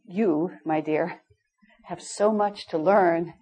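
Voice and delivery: slow, deliberate teacher's voice; lightly voiced wise teacher, unhurried; a touch of the gentle guru, slow; Swamiji's manner. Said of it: "I'm gonna say it the way he said it".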